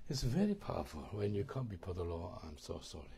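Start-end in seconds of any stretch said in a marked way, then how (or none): 2.4-3.1 a touch of contrition; soft humble sorry. Acted. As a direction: lower and softer, humble. Example apology before the Lord.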